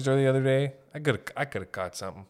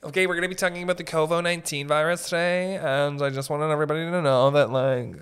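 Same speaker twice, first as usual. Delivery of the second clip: building manager; 3 semitones higher, 4 dB louder than usual. Pretend. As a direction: chirp it like a bubbly meeting host. Manager voice again.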